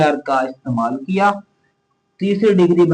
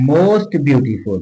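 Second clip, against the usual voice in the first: very slow, lowered, deliberate; slow demo; much slower than usual. Shown as a demonstration. Teacher slowly dictating the superlative to students. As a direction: stretch each word for dictation. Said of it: "लिखना होता है इसके साथ".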